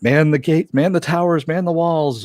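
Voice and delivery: high, loud commanding calls; rally the troops at the wall; mock battle cry; shouted orders. Commanders ordering defenders to posts.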